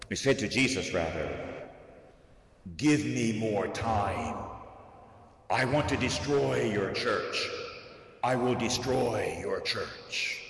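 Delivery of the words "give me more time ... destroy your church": mildly voiced demon demanding time; menacing devil voice. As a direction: let the evil one bargain darkly. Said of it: "a terrible, grovelly voice, the evil one".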